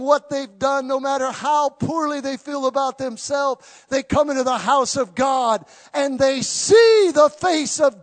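loud, rising preacher's cry that keeps building; fervent sermon climax; full-force preaching. Acted. Preaching to the congregation.

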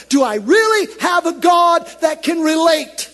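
shouting high and loud in despair; a desperate plea thrown to the heavens; desperate cry. Acted. Blind man's desperate climax.

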